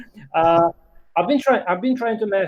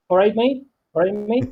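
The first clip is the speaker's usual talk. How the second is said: learner's go at Cockney, pitched up; attempted Cockney accent; 3 semitones higher than usual. Shown as a demonstration. Learner repeating for the other man, attempted Cockney accent. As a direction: copy the Cockney greeting back, a bit higher. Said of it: "say it to us".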